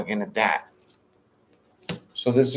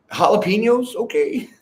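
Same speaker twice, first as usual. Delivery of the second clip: pitched way up, thrilled at the jalapeno news; excited; 10 semitones higher, 5 dB louder than usual. Retold or imitated. Tarot reader mimics her delight at the jalapeno ad, excited. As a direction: squeal the word jalapenos like it's a gift.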